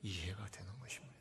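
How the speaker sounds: hushed, soft whispered delivery.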